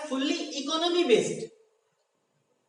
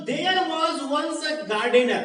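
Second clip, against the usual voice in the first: slow, deliberate read-aloud; unhurried teacher's dictation; 3 semitones higher, 4 dB louder, much slower than usual. Shown as a demonstration. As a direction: read the phrase out slowly for the class. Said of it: "मैं धीरे धीरे बोल रहा हूं".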